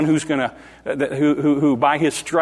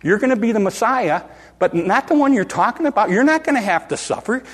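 firm protest, climbing higher as it goes; in-his-face rebuke; 5 semitones higher than usual. Retold or imitated. Peter face to face with Jesus, insistent rebuke. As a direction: push back insistently, pitch rising line by line. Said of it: "got face to face with him in his face".

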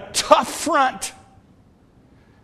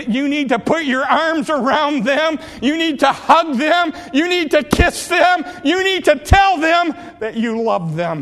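each line pushed higher, urging; building exhortation; 5 semitones higher than usual. Real, not acted. Pastor urging fathers in church, rising fervent appeal. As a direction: press the fathers harder with every line. Preacher urging dads to show love.

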